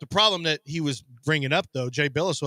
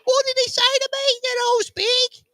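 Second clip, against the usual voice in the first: much higher, stunned disbelief; shocked; 5 dB louder, slower than usual. Retold or imitated. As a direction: gasp it out in outraged shock. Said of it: "She's like".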